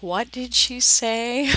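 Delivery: slow, mock-puzzled question; puzzled listener. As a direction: imitate a baffled listener, drawn out. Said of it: "You're like".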